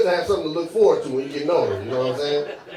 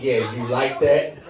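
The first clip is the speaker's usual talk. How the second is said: seductive voice; 2 semitones lower, much slower than usual. Retold or imitated. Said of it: "how dumb do I sound".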